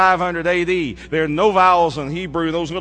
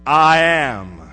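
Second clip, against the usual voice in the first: reverent; 2 semitones lower, 5 dB louder than usual. Real, not acted. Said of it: "with every bit of holiness and every bit of reverence".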